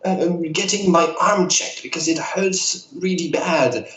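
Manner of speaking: a hint of a chatty elderly woman; old lady voice. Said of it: "I love your old lady voice".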